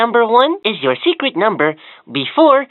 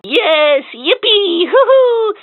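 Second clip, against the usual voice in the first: excited cheer; 12 semitones higher, much slower than usual. Acted. Toy cheering the child after guessing right, excited. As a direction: squeal with delight at winning.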